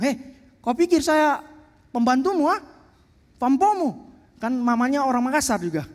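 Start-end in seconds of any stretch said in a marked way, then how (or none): 0.0-4.1 mock angry wife. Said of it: "Mamanya marah-marah".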